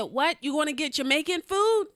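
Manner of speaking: high, loud checking question; playing hard of hearing. Mishearing his invitation in retelling, loud feigned confusion. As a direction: shout a question over imagined noise. Pretends to mishear him over noise.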